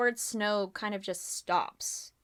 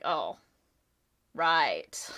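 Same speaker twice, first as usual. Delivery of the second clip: sheepish hush; 5 semitones lower than usual. Acted. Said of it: "kind of calm down".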